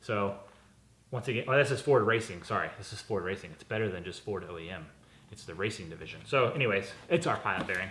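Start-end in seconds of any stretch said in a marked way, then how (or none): 2.8-6.2 low, soft, sarcastic hyped-up tone. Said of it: "Being a little sarcastic there".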